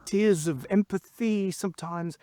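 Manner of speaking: high, stretched-out mock spoken-word poet; Joel McCarroll impression. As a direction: ham up the poet's impassioned pleading, very high. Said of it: "here's my Joel McCarroll".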